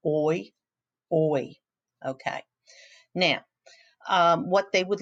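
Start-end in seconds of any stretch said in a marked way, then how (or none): 0.1-1.6 oi glided from "o" to "i"; sounding out oi. Shown as a demonstration. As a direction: model the oi sound twice for the class. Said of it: "There's the O I and the O Y".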